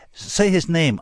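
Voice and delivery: high, loud prompt as if to a dog; coaxing command. A narrator's reading. Narrator prompting Frank as one would a dog, coaxing. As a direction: urge it like a fetch command. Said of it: "in the tone of voice one uses to say".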